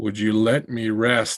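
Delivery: faraway subterranean voice. Game master voicing a figure by a tree whose eyes focus on you: voice from far underground. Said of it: "the voice comes from like a million miles away underground".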